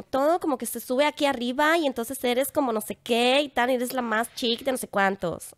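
mock posh Mexican fresa tune, rising endings; a hint of fresa accent, slowing. Shown as a demonstration. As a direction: float the endings up like a posh girl. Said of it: "las terminaciones están arriba".

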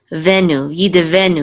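"Yid venu" with a short "eh" after the d; sounded shva. Shown as a demonstration. Teacher modelling the word for a student, sounded shva. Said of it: "we pronounce it this time".

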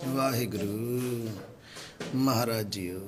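low, soft, drawn-out prayerful murmur; hushed invocation. Real, not acted. Helper invoking God over worn prayer books, hushed. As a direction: breathe out the holy name slowly and low.

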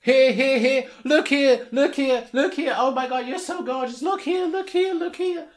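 high, eager paparazzi calls; hammed-up photographer begging for a pose; mock photographer shouting. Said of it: "stop shouting like you're some crazy person".

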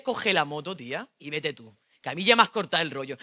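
low, sulky macho rant; jealous boyfriend. Acted. Jealous boyfriend ranting at girlfriend, low and sulky. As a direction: needle her like a jealous boyfriend.

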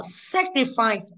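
SAcrifice, drawn out on SA; stress on first syllable. Shown as a demonstration. Teacher showing the class word stress, SA stressed in sacrifice. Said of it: "âm một và từ sense".

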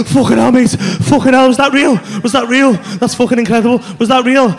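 loud, repetitive astonishment; stunned disbelief. Retold or imitated. Tripper waking to his mate, loudly stunned. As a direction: blurt it out, reeling.

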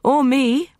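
high, loud cry. A narrator's reading. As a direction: cry out in protest. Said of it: "Evelyn cried".

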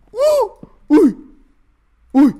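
very high startled uh; startled yelp. Real, not acted. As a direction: jump at a surprise. Startled in game.

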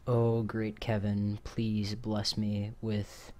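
slow, solemn mock invocation; mock prayer. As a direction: pray to Kevin with hammy reverence.

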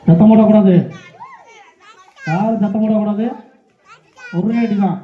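loud, low-pitched command; forceful crowd-control call; calling for silence. Real, not acted. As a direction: project a firm order over the crowd. Hushing spectators during the game.

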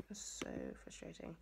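breathy whispered complaint, dropped right down; frustrated whisper. Real, not acted. Vlogger whispering to viewers after her cry, exasperated whisper.

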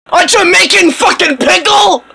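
high, outraged question; indignant outburst. Acted. Stranger mistaken for a dill pickle answers, indignant. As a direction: spit it out in disbelief.

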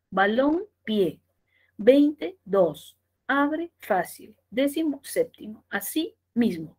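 "Así mismo" split, each word with its own stress; each word stressed separately. Shown as a demonstration. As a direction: separate stress on both halves, as in "Balón, pie" and "Veinte, dos". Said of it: "Cada una tiene su fuerza de voz".

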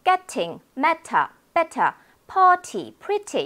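British accent with every T crisp; British English. Shown as a demonstration. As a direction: list the words British-style, hard T, no final r. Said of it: "물론 영국 영어는". (영국식 영어 발음으로 T를 또렷하게)

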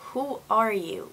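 hushed, retold bewilderment; stunned disbelief. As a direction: softly question your own reflection. Retelling not recognizing herself in mirror.

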